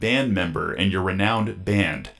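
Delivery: robot voice reading a letter. Pretend. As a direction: read it like a stiff robot voice. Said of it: "cue the robot voice".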